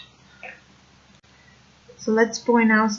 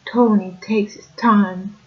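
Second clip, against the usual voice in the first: "Tony takes his time" with every T pressed against the teeth; Italian-American Brooklyn accent, dental T's; Brooklyn dentalized T. Shown as a demonstration. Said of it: "would sound something like".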